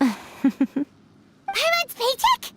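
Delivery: slow, dismayed disbelief; startled. Acted. Paimon hearing her pay is at stake, dismayed disbelief. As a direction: stretch it out in shock.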